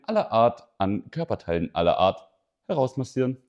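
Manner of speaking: lightly voiced ad pitch; infomercial. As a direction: sell it like a TV ad, lightly. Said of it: "Red mal, red mal, red mal ein paar, ein paar Sätze ein". (leicht gesprochener Werbespot)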